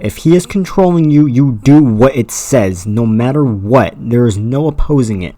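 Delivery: emphatic, slowed-down complaint; exasperated rant. Real, not acted. Fan objects to a broken story rule, emphatic exasperation. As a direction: drive home each word as an outraged fan.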